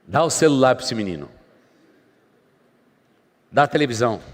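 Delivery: a touch of parental exasperation; exasperated parent giving in. Acted. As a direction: give in loudly to stop the fuss. Acted parent giving in to tantrum.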